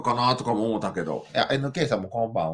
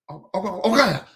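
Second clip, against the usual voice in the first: mock surprise; 6 semitones higher, faster than usual. Playful discovery of mom.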